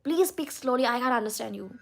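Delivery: loud retold plea from grandma; imitated grandma. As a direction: implore like an exasperated grandma, lightly voiced. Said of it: "she used to tell me that".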